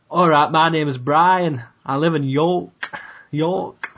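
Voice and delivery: light York accent impression; lightly put-on York accent. Shown as a demonstration. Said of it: "can you do an impression?".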